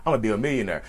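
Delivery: low, soft throwaway quote; mock empty claim. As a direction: toss it off quietly, unconvinced. Empty boast quoted as example.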